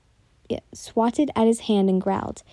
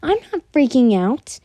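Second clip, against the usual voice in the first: high, louder frantic denial; screamed denial; 4 semitones higher, 5 dB louder than usual. Acted. Accused of freaking out, screaming back high and loud. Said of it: "You screamed".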